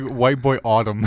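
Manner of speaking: put-on British accent. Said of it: "say, like".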